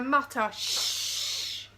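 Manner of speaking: slow hushed whisper. A narrator's reading. Reading to children, whispering the hidden voices. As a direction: breathe it like secret voices.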